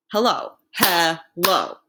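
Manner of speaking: slow, each syllable split apart; clapping out syllables. Shown as a demonstration. Teacher to class, counting claps slowly. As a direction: clap out every syllable slowly. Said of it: "two syllables, two claps".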